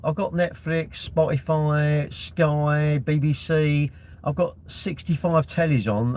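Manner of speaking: slow, stretched-out mock list; drawn-out listing. Kid telling Mum what's in the bedroom, slow drawn-out listing. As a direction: draw out each item as if reeling off possessions. Acting spoilt child listing gadgets.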